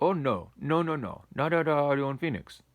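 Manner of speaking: put-on high, loud Indian-accented protest; imitating Indian accent. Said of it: "with the strong Indian accent".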